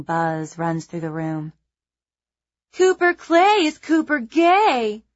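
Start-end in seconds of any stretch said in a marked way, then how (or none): 2.7-5.0 high, slow, loud mocking falsetto. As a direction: taunt in a shrill falsetto. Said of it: "calls out in a high falsetto voice".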